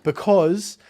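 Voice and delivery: slow, loud declaration over protests; emphatic announcement. Real, not acted. Host ending the episode over co-host's protests, emphatic. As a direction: declare it with finality, stretching words.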